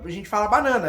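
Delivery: banana said the English way, stretched final vowel; English pronunciation. Shown as a demonstration. Teacher showing students how banana is said. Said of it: "A gente não fala".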